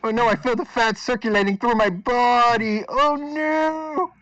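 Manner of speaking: hammed-up high-pitched panic; mock distress. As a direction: pretend the curse is working. Pretends curse takes effect.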